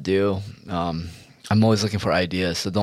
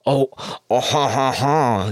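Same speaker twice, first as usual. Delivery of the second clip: mock laugh; 3 semitones higher, 3 dB louder, slower than usual. Mimics a mocking ethnic taunt.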